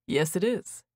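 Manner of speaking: a smile in his voice; smiling voice. A narrator's reading. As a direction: say it with a smile you can hear. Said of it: "Theo said with a smile in his voice".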